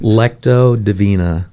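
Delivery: "Lectio Divina" said clearly as LEK-tee-oh dih-VEE-nah; careful pronunciation. Shown as a demonstration. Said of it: "Say it again, the real word".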